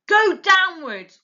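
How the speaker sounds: loud, slow firm command; ordering. A narrator's reading. Mr Fox commanding the family, loud order. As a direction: give the order to dig down. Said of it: "ordered Mister Fox".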